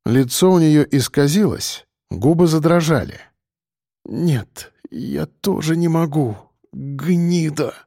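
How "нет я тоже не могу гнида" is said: softer, spat-out insult through clenched teeth; hissed through teeth. A narrator's reading. Evgenia refusing to kill her ex-husband, hissed through teeth. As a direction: grind the words out with contempt. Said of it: "процедила Евгения сквозь зубы".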